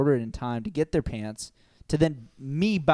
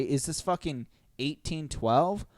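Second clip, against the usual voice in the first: retold outburst; 3 semitones higher, slower than usual. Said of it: "And I was like".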